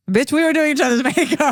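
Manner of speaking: high, campy comeback with a laugh; sassy Itai. Retold or imitated. Itai sassing his dad about the girls, high and campy. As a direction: toss it off with camp sass.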